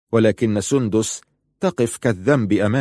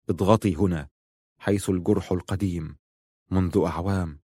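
softer, low-voiced request; soft and intimate; 3 semitones lower, 6 dB quieter than usual. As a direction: ask her gently, close to her ear. Asks Laila to press old wound.

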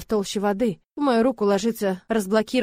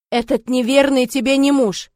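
loud, slow furious words; furious shout; 5 semitones higher, 8 dB louder than usual. Acted. Brother rejecting her marriage, furious loud shout. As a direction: hammer each word in rage.

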